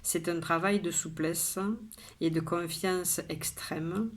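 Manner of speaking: measured poem reading with pauses between lines; poem recitation. Acted. Poet shares today's poem with viewers, measured recitation. Reads the poem a second time.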